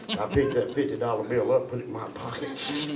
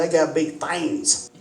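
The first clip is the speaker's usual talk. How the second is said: laughing through it; 4 semitones higher, slower than usual. Retold or imitated. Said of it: "I said".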